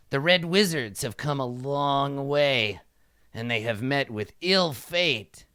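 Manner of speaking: lightly voiced regal character, drawn out; pompous kobold king. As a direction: answer slowly as a knowing monarch. Game master speaks as kobold king.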